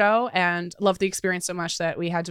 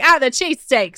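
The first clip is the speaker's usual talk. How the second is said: mock Philly accent; 5 semitones higher, 4 dB louder than usual. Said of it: "I don't know the Philly accent".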